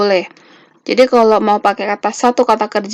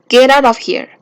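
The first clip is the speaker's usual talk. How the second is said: firm command; 3 semitones higher, 4 dB louder than usual. Shown as a demonstration. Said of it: "kesannya lebih tegas".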